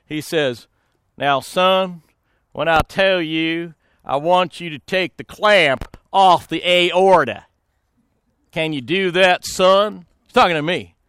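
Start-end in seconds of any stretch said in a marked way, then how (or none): 1.2-10.0 lightly voiced surgeon, slow and deliberate; a hint of a measured senior surgeon; imitated surgeon. Senior surgeon instructing a trembling assistant, slow and deliberate. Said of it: "the surgeon who was, wrote the textbook".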